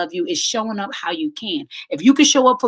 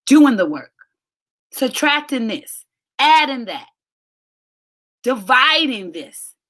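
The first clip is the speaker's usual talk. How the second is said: loud, emphatic preaching beat; punched out; 3 semitones higher, 3 dB louder than usual. Real, not acted. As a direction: hit it like a sermon point. Preaching the life equations.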